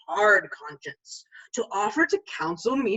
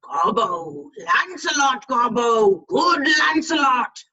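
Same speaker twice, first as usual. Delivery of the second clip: slow, louder, rising fiend voice calling his name; the devil on his shoulder coaxing him; coaxing fiend calling Gobbo; tempting fiend; 3 semitones higher, 6 dB louder, slower than usual. Retold or imitated. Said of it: "The fiend is in mine elbow, and tempts me, saying to me".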